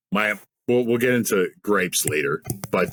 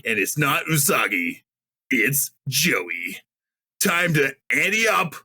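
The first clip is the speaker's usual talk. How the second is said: lightly voiced raised surfer-dude cartoon voice; Rocksteady voice; 5 semitones higher than usual. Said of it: "you gotta say it in Rocksteady's voice".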